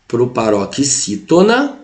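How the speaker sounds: "proparoxítona" stretched out slowly, syllable by syllable; slow for repeating. Shown as a demonstration. Teacher to students, a slow model to repeat. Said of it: "repete comigo aí".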